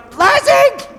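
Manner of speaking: high, loud hammed-up scream of Lazi; mock scream. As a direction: scream the word like a crazed preacher. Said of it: "I'm screaming and I'm going crazy".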